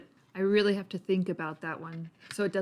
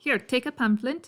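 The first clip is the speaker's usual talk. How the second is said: put-on higher, lightly Irish-accented offer; 4 semitones higher than usual. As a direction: press it on them with a light Irish lilt. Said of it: "I'm guessing he's more Irish".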